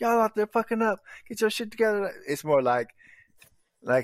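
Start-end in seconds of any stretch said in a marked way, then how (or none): 0.0-2.1 very high, furious, acted-out angry coach yell. Contrasting a coach's negative yelling with positive yelling: imitating a coach yelling angrily. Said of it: "positive reinforcing yelling versus, like".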